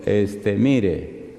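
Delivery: low, unruffled reply; calm. Retold or imitated. Pastor calmly answering a defiant caller, calm. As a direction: keep it calm and composed. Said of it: "así tranquilo".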